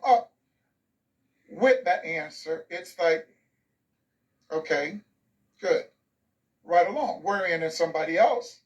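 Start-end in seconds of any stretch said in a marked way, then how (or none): 4.5-7.2 understated, cursory teacher response; perfunctory acknowledgment. Acted. Teacher passing over a Black pupil's answer, perfunctory. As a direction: acknowledge it briefly and move on. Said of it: "And it was just, and you moved right along".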